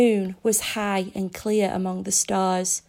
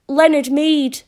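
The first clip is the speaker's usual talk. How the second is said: name repeated louder and higher, after "Speak up."; 6 semitones higher, 8 dB louder than usual. A narrator's reading. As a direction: say "Leonard Mead" again louder and higher. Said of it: "Speak up".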